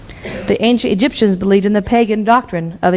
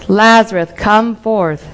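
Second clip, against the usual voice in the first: calling out Lazarus, a bit louder; slower than usual. Acted. Jesus calling Lazarus from the tomb, a loud call. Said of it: "Jesus cried out in a loud voice".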